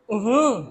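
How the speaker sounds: mock wordless "uh-hum" of a stumped student; imitated stumped grunt. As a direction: act out a student with no answer, just a short grunt. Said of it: "फिर आप करोगे". (अटके हुए छात्र की नकली "उहुं")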